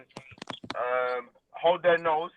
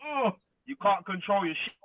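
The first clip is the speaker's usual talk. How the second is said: excited; 3 semitones higher than usual. Retold or imitated. Acting out partner's excitement.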